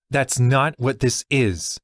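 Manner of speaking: a slow, heated snap back; snapping. Acted. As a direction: bite back defensively, slow and pointed. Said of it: "Allie snapped".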